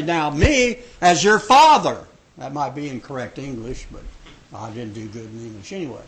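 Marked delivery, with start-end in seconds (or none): 0.0-2.1 a mock stern father, louder; a touch of a stern dad; parent voice. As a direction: put on the firm parent. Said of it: "as parents do we say".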